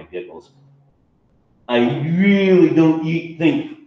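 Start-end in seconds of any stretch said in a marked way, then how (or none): 1.7-3.8 mild warning. Acted. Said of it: "he warned".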